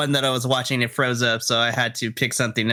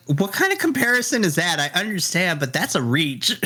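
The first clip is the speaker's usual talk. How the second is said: higher, disbelieving scoff; incredulous; 5 semitones higher than usual. Retold or imitated. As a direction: scoff at a bad comparison. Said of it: "I'm like".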